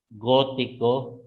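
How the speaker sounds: slow "gótico", stress on first gó; stress demonstration. Shown as a demonstration. Teacher giving students an accent example, slowly stressing gó in "gótico". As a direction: draw out "gótico", weighting gó. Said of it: "para cargar el tono de la letra".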